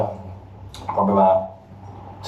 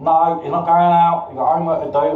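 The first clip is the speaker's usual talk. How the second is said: strict mum; 5 semitones higher than usual. Retold or imitated. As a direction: lightly play the mum saying no. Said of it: "she'd be like".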